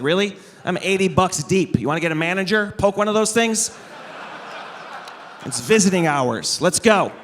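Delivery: mock outrage at the sleeping tigers; mock indignant. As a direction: gripe like a cheated customer. Griping at sleeping zoo tigers.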